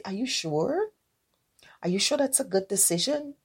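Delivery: soft, near-whispered doubt; worried questioning. Retold or imitated. A worried friend quietly doubting a troubled partner's engagement. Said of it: "You're going to be obviously concerned".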